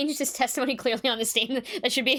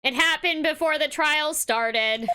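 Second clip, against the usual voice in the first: slow stiff robot voice; 4 semitones higher than usual. Acted. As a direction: read it like a robot. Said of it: "It is tough to talk like a robot".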